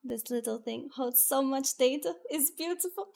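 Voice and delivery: high-pitched, softening gush over a prized gadget; over-the-top adoring coo; cringey gushing. Real, not acted. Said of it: "I'm being cringe".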